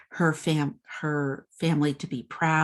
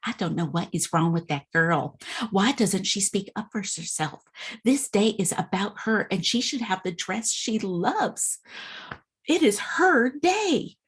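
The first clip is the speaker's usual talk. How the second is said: frustrated; 4 semitones higher than usual. Retold or imitated. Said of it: "the sales lady is just getting so frustrated".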